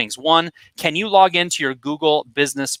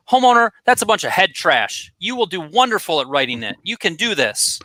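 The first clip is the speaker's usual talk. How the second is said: mean coach; 5 semitones higher than usual. Retold or imitated. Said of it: "if I was in my coaching mode".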